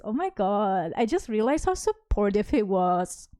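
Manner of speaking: slow mock realisation; drawn-out ironic praise; sarcastic. Real, not acted. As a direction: feign sudden admiration, dragging out the words.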